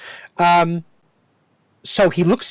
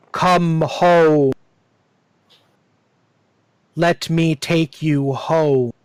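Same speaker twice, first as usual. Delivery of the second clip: tree voice; much slower than usual. Acted. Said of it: "The tree says".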